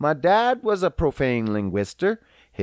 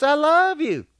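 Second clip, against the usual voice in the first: affectionate; 3 semitones higher, 3 dB louder than usual. Shown as a demonstration.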